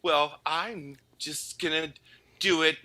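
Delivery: put-on young boy defiantly planning to keep the accent; defiant inner thought. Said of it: "core memory thinking".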